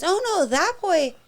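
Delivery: put-on high, slow, sweet little boy voice; a small son doting on his friend; child's fond voice. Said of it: "he goes".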